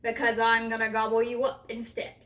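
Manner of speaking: loud menacing troll voice; troll's roar. A narrator's reading. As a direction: roar the threat as a hungry troll. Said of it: "roared the giant".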